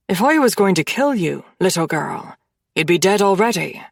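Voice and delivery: lightly voiced cool captor, unhurried; calm killer.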